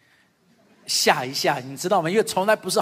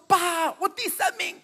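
higher, slow, lightly voiced proud boy; child's voice; 8 semitones higher, slower than usual. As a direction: play the boy announcing his result. Son reports his third place. (稍微模仿孩子的声音，慢慢地说)

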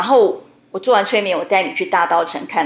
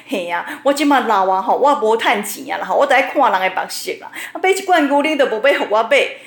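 tearful complaint. Retold or imitated. Old mother on the phone to relatives, a hammed-up tearful complaint. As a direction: whine it like a self-pitying opera heroine. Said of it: "开始哭诉说".

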